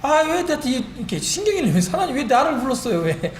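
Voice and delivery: mock-whine, imitating your own irritated protest; annoyed complaint. Believer complaining to God about being called, annoyed retelling. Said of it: "짜증나가지고".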